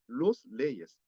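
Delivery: los leyes spoken slowly and deliberately; slow careful los leyes; slow demo. Shown as a demonstration.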